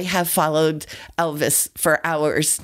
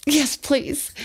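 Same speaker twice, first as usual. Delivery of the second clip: eager yes; 11 semitones higher than usual. Retold or imitated. Starstruck girl answers a singer.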